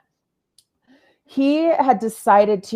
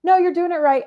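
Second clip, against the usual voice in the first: much higher and louder, a called-down yell; retold yell from above; 10 semitones higher, 5 dB louder, faster than usual. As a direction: shout it down the rope, reassuring. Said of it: "the gentleman yells down".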